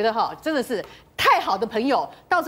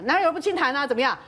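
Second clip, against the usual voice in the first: unapologetic retort, lightly acted; self-righteous; faster than usual. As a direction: imitate someone brazenly standing their ground. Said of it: "一副理直气壮这样讲".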